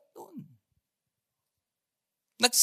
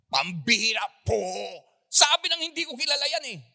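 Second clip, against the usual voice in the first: cursing denial; 5 dB louder than usual. Retold or imitated. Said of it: "Nagmura na siya eh".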